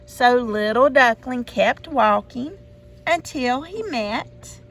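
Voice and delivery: usual speaking voice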